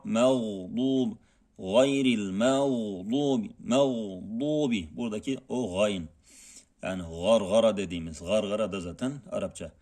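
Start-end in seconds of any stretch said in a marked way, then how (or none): 1.6-5.0 "gayril mağdubi" slow with a gargled gh; slow Arabic recitation. Shown as a demonstration. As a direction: draw out "mağdubi" with a gargling gayn. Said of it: "Bu da gayn".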